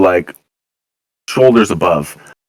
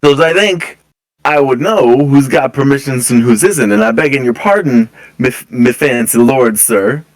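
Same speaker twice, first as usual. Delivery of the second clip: guard voice held; 3 semitones higher than usual. Acted. Guard keeps talking in character.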